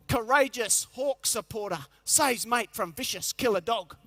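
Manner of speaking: slow, grand headline announcement; headline read. Pretend. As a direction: spell out a back-page headline slowly. Reading imagined headline.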